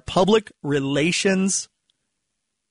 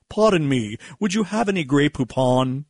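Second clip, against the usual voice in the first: mock English accent. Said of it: "by the English-speaking non-American voices".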